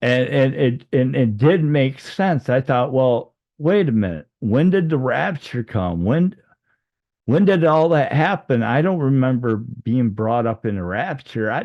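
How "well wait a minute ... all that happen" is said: higher-pitched puzzled questions; bewildered. Retold or imitated. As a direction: piece it together in growing confusion. Retold confusion about the rapture.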